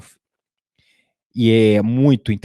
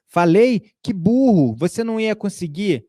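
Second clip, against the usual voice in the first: mock inner critic; 7 semitones higher than usual. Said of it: "Vem uma voz estranha falando".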